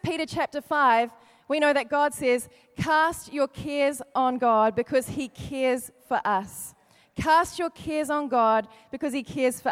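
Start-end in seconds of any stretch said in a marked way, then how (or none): 2.8-6.7 very slow, each word weighed; slow solemn scripture reading. Shown as a demonstration. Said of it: "repeated scripture".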